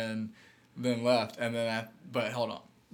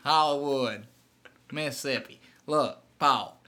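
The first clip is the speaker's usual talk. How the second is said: Southern caller, laughing; 2 semitones higher, 5 dB louder than usual. Pretend. Hank griping to Paul about Ole Miss, laughing twang. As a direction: play the caller while cracking up. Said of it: "That's a good character".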